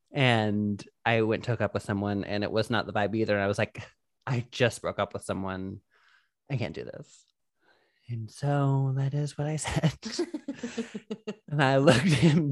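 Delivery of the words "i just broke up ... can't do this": low, subdued excuse; mock-grave confession. Telling a hookup about a breakup, subdued confession. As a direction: let it sink quieter, as if confessing.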